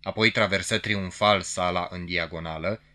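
ordinary delivery

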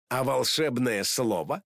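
slow teasing question; slow, mocking tease. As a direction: drag it out to needle her. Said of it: "издевался Суперкот".

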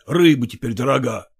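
ordinary delivery, nothing marked

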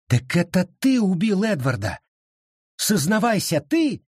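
rising high, urgent voice; frantic accusation; desperate demand. A narrator's reading. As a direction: demand the truth. Abita demands confession.

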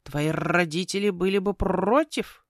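slow croak with rolled r's; talking raven. Acted. Raven chiding the girl over the deck of cards, slow croaking. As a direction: raven objecting with rolling r.

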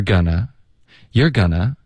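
"gonna" said slowly as one reduced word for "going to"; gonna reduction. Shown as a demonstration. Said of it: "going to的这个将来时的发音是gonna". (慢慢示范"gonna"，把going to弱读成gonna)

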